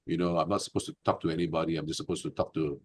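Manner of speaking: imitating her sarcastic tone. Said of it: "she spoke very sarcastically".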